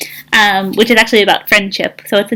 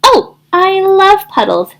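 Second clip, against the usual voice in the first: excited yell; 10 semitones higher than usual. Acted. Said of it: "Thistle yelled".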